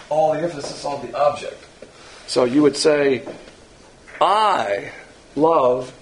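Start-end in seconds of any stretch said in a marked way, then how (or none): 4.2-5.9 "I" drawn out and set apart, "love" after a pause; stress on I. Shown as a demonstration. Preacher shows where agapao puts the weight, stress on I. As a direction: lean on "I", let "love" drop away. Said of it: "just barely whisper that".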